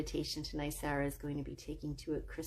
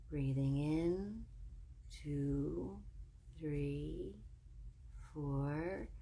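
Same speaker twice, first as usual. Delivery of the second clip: calm, measured meditation voice with long pauses; soothing breathing-exercise lead, lingering between phrases; guided meditation; 4 dB quieter than usual. Real, not acted. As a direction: guide them gently into relaxation, phrase by phrase.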